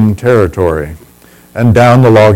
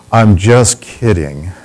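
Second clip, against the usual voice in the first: gentle reassurance; 3 semitones lower, 3 dB quieter, slower than usual. Retold or imitated. Reassuring the crying girl.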